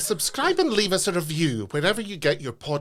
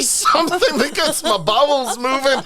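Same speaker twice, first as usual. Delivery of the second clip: laughing while talking; 8 semitones higher, 6 dB louder than usual. Real, not acted. Joke between laughs.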